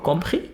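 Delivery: COMPRIS high, rising at the end; just the verb Compris, lifted into a question; question intonation. Shown as a demonstration. Teacher shows no question word needed, rising Compris. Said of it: "A question".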